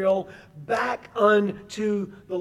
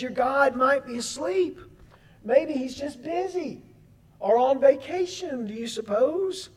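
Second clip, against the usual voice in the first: higher-pitched mock speculation; sarcastic; 3 semitones higher than usual. Elijah ridiculing the prophets' sleeping god, sarcastic. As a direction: taunt them with feigned helpful guesses. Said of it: "He sarcastically says".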